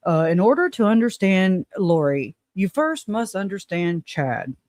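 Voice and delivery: mock him as a pompous host, slowing down; imitating John. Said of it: "And he's like".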